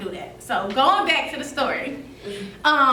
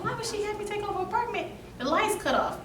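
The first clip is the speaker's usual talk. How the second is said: quiet, higher muttered complaint; retold dismay; 8 semitones higher, 9 dB quieter than usual. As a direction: complain softly to yourself. Retelling her dismayed self-talk.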